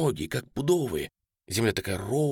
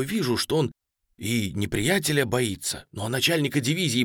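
usual speaking voice

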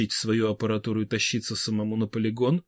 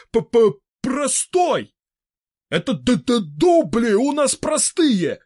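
higher, stuttering, offended; indignant stammering old man; 11 semitones higher, 6 dB louder, slower than usual. A narrator's reading. Fedor Semenovich rebuking Vybegallo, indignant stutter. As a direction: sputter with offense.

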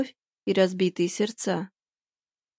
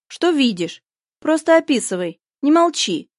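higher and louder, pressing; urgent pleading; 5 semitones higher, 4 dB louder than usual. Acted. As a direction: push her to keep talking. Friend urging on the phone.

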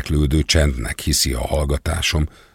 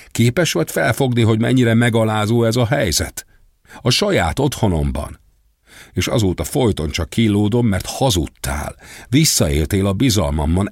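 raised, higher pitched furious yelling; shouting in anger; 4 semitones higher than usual. Acted. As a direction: shout your hurt at him, pitch climbing. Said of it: "Hagynak egyre hangosabban kiabálni".

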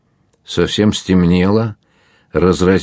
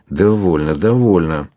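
ordinary delivery

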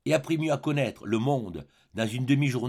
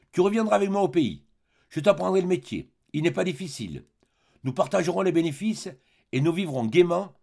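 hearty Colin; 4 semitones higher than usual. Acted.

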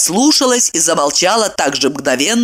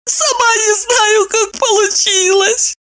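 put-on high, slow embarrassed girl voice; slower than usual. A narrator's reading. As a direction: squeak out a blushing excuse. Maya blushes, caught out.

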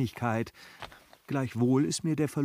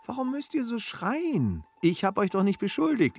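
sharp rebuke; 7 semitones higher than usual. Acted. Rebuking shouting bailiff.

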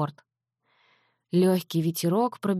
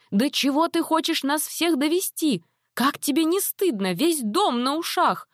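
scolding mother; 9 semitones higher than usual. A narrator's reading. Mother scolding her runaway daughter, high frantic scolding. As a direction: tear into her, frightened and furious.

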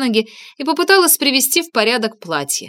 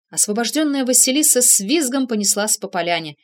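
plain reading voice

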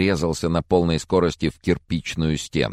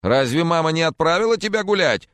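put-on higher scolding baby talk; old man cooing at the spaniel, higher; 13 semitones higher, 4 dB louder than usual. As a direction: coo at the puppy in mock sternness. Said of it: "сюсюкая".

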